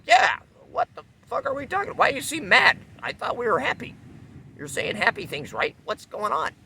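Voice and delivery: very high, loud and squeaky bewilderment; an innocent who can't understand why the other is mad; baffled. Retold or imitated. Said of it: "you're like".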